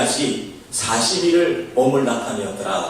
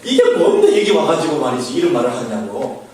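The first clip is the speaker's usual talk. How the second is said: mock angry brother; 5 dB louder than usual. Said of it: "막 화를 낸 거예요".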